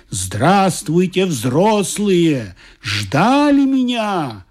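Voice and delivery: slow, grand greeting, lightly voiced; God greets the adults, slow and grand; booming God. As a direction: stretch the words like a jolly deity. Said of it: "Бог загремел басом".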